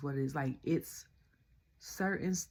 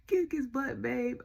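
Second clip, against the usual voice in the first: a light, higher cheering voice; mock Trinity; 8 semitones higher, 3 dB louder than usual. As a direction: cheer on the husband playfully. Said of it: "He was like".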